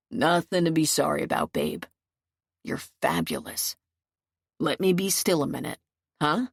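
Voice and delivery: lightly voiced man calming his partner; Tom. A narrator's reading. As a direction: drop low and soothe your lover.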